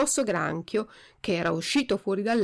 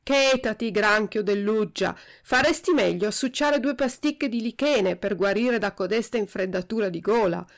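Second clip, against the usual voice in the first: rudely. Acted. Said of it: "gli disse sgarbatamente".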